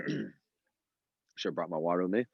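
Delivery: throat irritated by a bug; slow, with a bug in the throat; just swallowed a bug. Real, not acted. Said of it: "Swallowed a little gnat".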